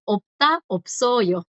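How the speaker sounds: "opta, opsoyo" with the batchim clearly pronounced; sounded consonant demo. Shown as a demonstration. Teacher contrasts with the earlier verb, careful pronunciation demo. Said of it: "que ya ahí sí suena".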